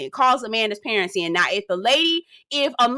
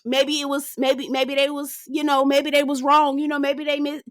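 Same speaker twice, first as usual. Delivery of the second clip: mocking Shannon; 4 semitones higher than usual. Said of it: "here he go, putting his tap dance shoes on".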